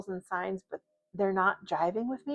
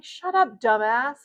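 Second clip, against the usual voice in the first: mock insult, pitched way up; teasing sibling; 3 semitones higher, 5 dB louder than usual. Sibling rivalry insult to a brother, high mock jab. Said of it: "sibling rivalry where you can be like".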